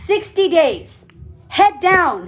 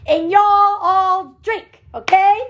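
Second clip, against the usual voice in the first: slow, playful Southern drawl; Southern accent; 2 semitones higher, slower than usual. Pretend. California speaker teasing the team about their talk, in a Southern accent. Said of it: "you guys all talk like that".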